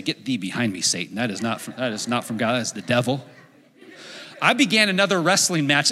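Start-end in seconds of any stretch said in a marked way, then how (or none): 0.0-3.2 mock rebuke. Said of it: "you almost wanna say".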